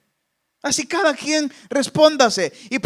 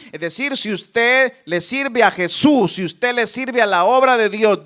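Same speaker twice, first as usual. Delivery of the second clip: ordinary talk, nothing marked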